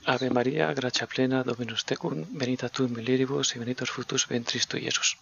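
steady recited Our Father in Latin; leading the first half of a Latin prayer. Real, not acted. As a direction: pray it aloud, measured and devout. Leads the Hail Mary in Latin.

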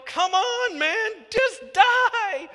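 high, loud exasperated yell to die already; impatient yelling. Retold or imitated. Israelites at the grumbler's tent, yelling for him to die. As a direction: urge the dying man on, shouting. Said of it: "can't you see him going".

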